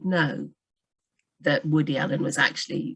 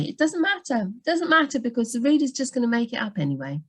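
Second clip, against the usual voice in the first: higher-pitched mock brush-off; dismissive retort; 5 semitones higher than usual. Editor imitating authors who say it doesn't matter, mock dismissive.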